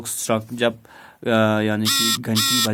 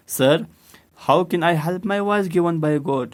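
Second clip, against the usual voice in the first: put-on higher, raised boy's protest; mock shouting boy; 6 semitones higher, much slower than usual. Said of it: "you are shouting again".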